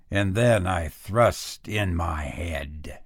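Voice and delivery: slow breathy whisper. A narrator's reading. Madman narrator whispering as he creeps in. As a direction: whisper it as if the old man might wake.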